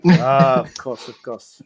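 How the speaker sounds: hammed-up French accent; terrible French accent. Host owning up to touching up old masters, in a terrible French accent. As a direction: bluff along in a bad French accent. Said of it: "my terrible French accent".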